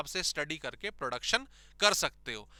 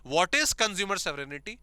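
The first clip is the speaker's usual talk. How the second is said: slow exam question; much slower than usual. Shown as a demonstration. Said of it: "ये word याद रखिएगा".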